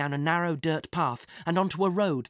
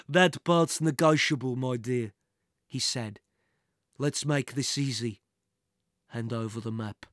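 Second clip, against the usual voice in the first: a hint of oily menace, sinking lower; villain toying with a captive; lightly voiced menacing villain; 4 semitones lower than usual. Villain bargaining with his captive.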